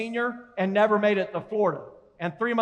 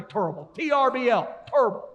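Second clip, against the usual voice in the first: Barkley impression. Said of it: "Like Charles Barkley".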